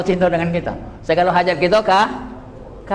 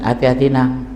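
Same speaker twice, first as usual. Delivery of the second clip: teacher's warning; 4 semitones lower than usual. Retold or imitated.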